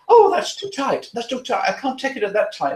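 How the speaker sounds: high, complaining lady's voice; imitating fussy client. Trainer imitating his client protesting the tight collar, high whine. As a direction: whine that it's far too tight.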